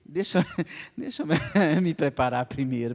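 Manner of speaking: pleading through a laugh; laughing plea. Retold or imitated. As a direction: beg for time, half laughing. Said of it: "Eu falei". (pedindo um tempo, rindo)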